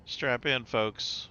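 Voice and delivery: crunching ice while talking; talking around ice in the mouth. Real, not acted. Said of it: "I'm crunching my ice".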